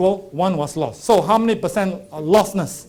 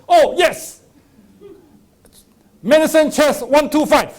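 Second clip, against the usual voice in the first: snake oil seller; 9 semitones higher, 8 dB louder than usual. Retold or imitated. Quack finds medicine, gleeful.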